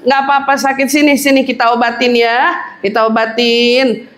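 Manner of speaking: put-on calm the hurt child gently; soothing mother.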